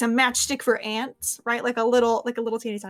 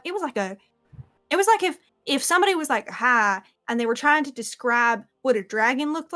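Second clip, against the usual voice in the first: animated, rambling eyewitness squire; lightly voiced amazed squire. Squire tells Ivy about the weird creature, lightly voiced amazement. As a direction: tell it as a lightly acted, baffled squire. Game master plays squire Ara.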